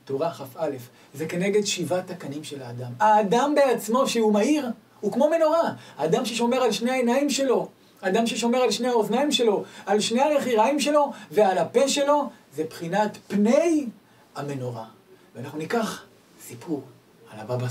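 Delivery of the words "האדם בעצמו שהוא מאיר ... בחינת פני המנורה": high, loud fervent sermon voice; preaching at full force. Acted. Preacher rousing his audience about guarding the eyes. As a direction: build it up like a rousing pulpit call.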